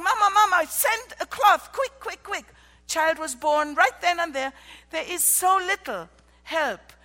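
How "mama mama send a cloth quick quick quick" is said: much higher and louder, frantic plea; urgent call. Retold or imitated. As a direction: cry out for help in a hurry. Neighbor running for help.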